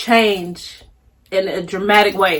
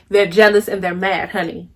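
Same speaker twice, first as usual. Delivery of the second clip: repeating it to the viewers, lower and softer; quieter, lower repeat; 4 semitones lower, 5 dB quieter than usual. Shown as a demonstration. To the camera, a low knowing repeat. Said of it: "I'm gonna say that again".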